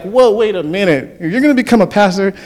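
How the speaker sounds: retold disbelief. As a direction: act out being taken aback. Disbelief at coach's pastor news.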